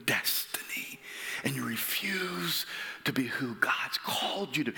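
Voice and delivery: urgent preaching. Acted. Preacher pleading with congregation, whispered urgency. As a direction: hush it like a confession.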